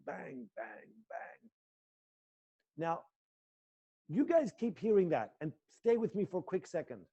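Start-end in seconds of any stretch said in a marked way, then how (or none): 0.1-1.5 mock table bangs. Shown as a demonstration. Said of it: "I hear them belting on the table".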